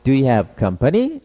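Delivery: slow rising question, do you have company? lifted at the end. Shown as a demonstration. Teacher raises the tone for learners to repeat. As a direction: pitch it up for the question. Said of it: "톤 좀 높여서".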